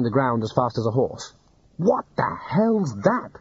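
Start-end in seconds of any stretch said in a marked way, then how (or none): 1.8-3.3 yelled. Acted. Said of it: "he yelled".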